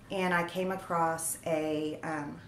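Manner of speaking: talking with hair in her mouth; words caught on a hair in the mouth. Real, not acted. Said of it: "sorry, I have hair in my mouth".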